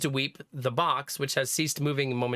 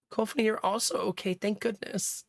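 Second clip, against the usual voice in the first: tearful Mei Ling, relieved; 6 semitones higher than usual. Acted.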